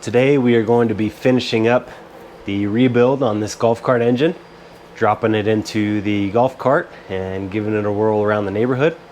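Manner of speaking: hoarse voice from a cold. Real, not acted. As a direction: talk through a lingering cold, a bit hoarse. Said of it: "excuse my voice, uh, I'm getting over a cold".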